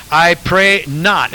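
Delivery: I pray not, drawn out slowly with not held; slow down and lean on not; preacher slowly stresses not for the congregation to repeat. Shown as a demonstration. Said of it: "Everybody say "not".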